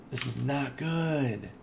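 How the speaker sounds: slow, stretched-out lament; slow wail of "not good"; drawn-out dismay. Real, not acted. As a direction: drag it out in dismay. Hiccups return, dismay.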